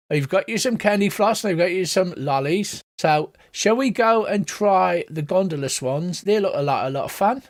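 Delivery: put-on cheery cockney mum to her kids; lightly voiced cockney mother. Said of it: "she's gone cockney as well".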